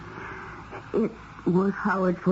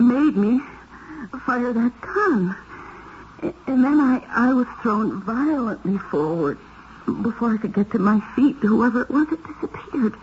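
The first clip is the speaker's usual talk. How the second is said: frightened retelling; 5 semitones higher than usual. Acted. Reliving a murder in terror.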